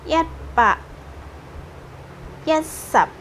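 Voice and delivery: teacher sounding out "Yatsap" up high; Hokkien count. Shown as a demonstration. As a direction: call out "Yat, Pak" and then "Yatsap" clearly, a teacher modelling it. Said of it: "seratus sebelas ngomongnya".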